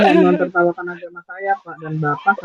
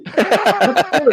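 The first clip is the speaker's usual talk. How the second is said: laughing; 6 semitones higher than usual. Real, not acted. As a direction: say it through a short laugh. Caller laughs mid-argument. (sambil tertawa)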